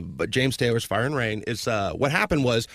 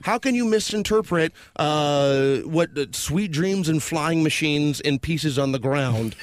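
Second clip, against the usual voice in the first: exasperated retort; 3 semitones higher than usual. Retold or imitated. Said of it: "And I'm like".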